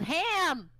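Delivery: sudden high, loud yell imitating a friend; retold yell. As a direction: blurt it out as a mock yell. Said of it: "she was, just yelled".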